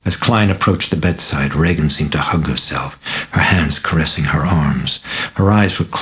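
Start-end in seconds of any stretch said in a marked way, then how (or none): none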